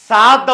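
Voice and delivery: SAAD, not English 'sad'; correct sound demo. Shown as a demonstration. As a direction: stretch the vowel in సాద్. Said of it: "సాద్ అవుతుంది".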